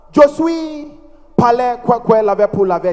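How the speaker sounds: gibberish French rattled off as an interviewer; mock French. French interviewer quizzing a visa applicant, mock French. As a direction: fake French question. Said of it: "but in French".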